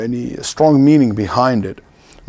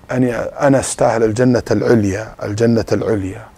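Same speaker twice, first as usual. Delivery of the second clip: put-on her Arabic accent; 2 semitones lower, much faster than usual. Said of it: "in her accent".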